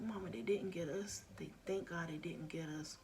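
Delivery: soft hushed reassurance; daughter consoling, whispered. Retold or imitated. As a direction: comfort her gently. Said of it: "she was like".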